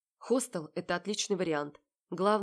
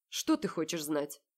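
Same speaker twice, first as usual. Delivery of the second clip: calm. Acted. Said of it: "спокойным голосом спрашивает Марат".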